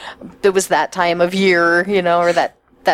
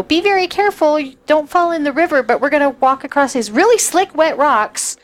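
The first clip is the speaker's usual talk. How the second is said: higher-pitched mock warning voice; cautioning grown-up; 6 semitones higher than usual. Camper retelling the warning before the river crossing, higher-pitched cautioning. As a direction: recite a safety warning in a raised pitch.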